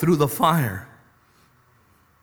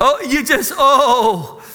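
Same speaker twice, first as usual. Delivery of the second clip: breaking up, higher and louder; laughing; 7 semitones higher, 5 dB louder, slower than usual. Real, not acted. Preacher cracking up at his own joke, high and loud. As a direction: lose it at the punchline.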